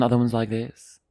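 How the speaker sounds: clumsy attempt at a British accent; playful, badly faked British accent. Shown as a demonstration. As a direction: put on a poor British accent. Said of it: "my British accent was bad".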